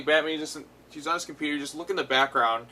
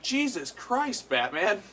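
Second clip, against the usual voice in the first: amazed; 6 semitones higher, much slower than usual. Retold or imitated. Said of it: "I'm like".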